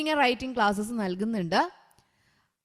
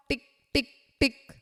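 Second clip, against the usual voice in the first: crisp clipped tick tick tick; ticking clock. Shown as a demonstration. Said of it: "clock sound demo". (ക്ലോക്കിന്റെ ടിക് ടിക് ശബ്ദം അനുകരിക്കുന്നു)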